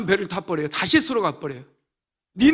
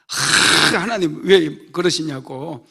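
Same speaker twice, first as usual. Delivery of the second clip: annoyed complaint; 5 dB louder, much slower than usual. Retold or imitated. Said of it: "열받아가지고".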